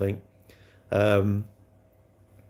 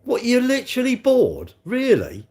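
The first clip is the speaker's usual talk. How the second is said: mock incredulous; 14 semitones higher, 5 dB louder than usual. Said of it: "I'm like".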